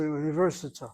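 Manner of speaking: "university" in a lightly attempted Ashkenazi accent; Ashkenazi pronunciation. Shown as a demonstration. Teacher supposing what Ashkenazim say, light Ashkenazi accent. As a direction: say "university" as an Ashkenazi speaker might. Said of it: "say it in Ashkenazi".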